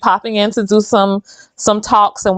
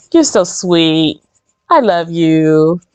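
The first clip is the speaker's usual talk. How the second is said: tender thanks; 2 semitones lower, much slower than usual. Real, not acted. Thanking helper for warm water.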